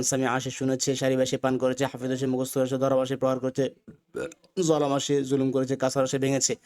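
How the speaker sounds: the whole row at a steady run without a pause; in one breath. Shown as a demonstration. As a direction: recite the row in a single breath. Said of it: "এক নিঃশ্বাসে সবগুলো শব্দ বলতে হবে". (এক নিঃশ্বাসে বলা)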